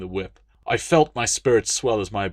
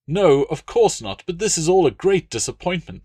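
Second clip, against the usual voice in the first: high, loud aggrieved noble; pompous Roman legate, put out; indignant legate; 8 semitones higher, 5 dB louder than usual. Acted. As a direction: protest like a spoiled patron. Latius sulking.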